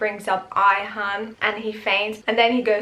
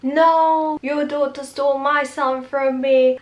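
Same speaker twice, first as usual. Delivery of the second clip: mock indignant retort; 5 semitones higher than usual. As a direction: fire it back as the offended mother. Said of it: "Mama David is like".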